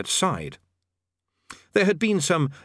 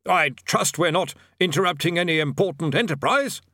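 a lightly nervous, higher bursar; politely, a little higher; 6 semitones higher than usual. A narrator's reading. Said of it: "said the bursar politely".

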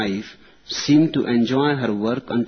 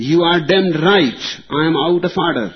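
loud, higher defiant comeback; defiant retort; 5 semitones higher, 5 dB louder, faster than usual. Retold or imitated. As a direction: throw it right back at him. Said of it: "retorted the Republican".

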